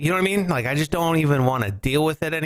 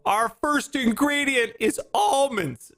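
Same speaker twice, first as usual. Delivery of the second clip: mock box slogan; 10 semitones higher, slower than usual. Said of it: "That's what it says on the box".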